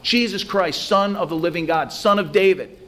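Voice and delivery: high, strained cry of a blind beggar; shouting for Jesus. Retold or imitated. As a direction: call out over the crowd, pitch climbing. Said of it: "Bartimaeus continues to shout".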